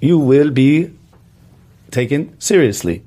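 slow, even robot voice. Shown as a demonstration. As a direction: speak like a stiff robot. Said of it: "you have to speak like a robot".

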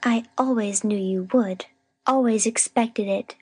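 slow, reproachful I-told-you-so; accusing. A narrator's reading. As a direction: lay the blame with slow certainty. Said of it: "she exclaimed".

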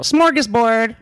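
high-pitched mock white-girl voice. Teasing her pronunciation, mock white girl. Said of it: "like a white girl".

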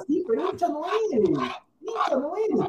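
rising indignant scolding; heated scolding. Real, not acted. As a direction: tell him flatly he's no real fan. Heated argument with co-host.

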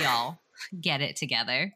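put-on a half-hearted go at a Southern accent; terrible Southern accent. Co-host imitating absent friend scolding the giggly pair, mock Southern accent. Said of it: "I do a terrible Rachel slash Southern accent".

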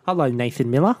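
British greeting sliding into Australian; mock accent, Miller ending in "ah"; Australian-tinged British accent. Host greeting a UK supporter, British accent drifting Australian. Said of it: "He's automatically going to Australia".

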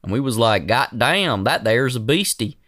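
folksy hick voice; fake wholesome. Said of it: "They all kinda have that vibe".

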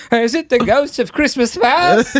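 high, slow ghostly wail; spooky ghost voice. Retold or imitated. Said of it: "and I was like".

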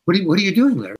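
stumbling repeat, pitched a little up with concern; urgent, troubled. Retold or imitated. Director catching his actor at cards, urgent and troubled. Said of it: "with urgency and trouble".

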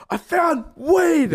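long, high-pitched imitated holler; triumphant shout. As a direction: cry it out like a jubilant friend. Friend triumphantly announces his find.

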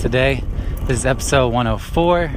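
talking into wind while riding; windy outdoor recording; wind in the face. Real, not acted. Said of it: "Sorry if it's windy".

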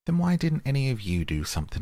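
pitched high in outrage, pressing the rabbit; indignant demand. A narrator's reading. Otter scolding the rabbits for not helping, indignant and high. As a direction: scold them for doing nothing, voice jumping up.

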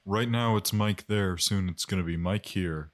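lightly voiced guest character. Mike voice.

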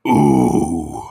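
low, loud eerie moan; low monster voice. Retold or imitated. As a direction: groan like a waking beast. Chaos voice from cauldron.

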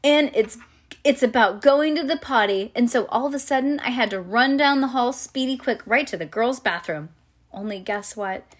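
put-on animated, childlike first-person storytelling; reading to children. A narrator's reading. Reading a chapter book to a child, animated storytelling. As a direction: read it aloud like a little girl telling her tale.

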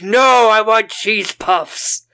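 melodramatic whine; whiny Susan. Retold or imitated. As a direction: Susan whining about cheese puffs. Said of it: "she's like".

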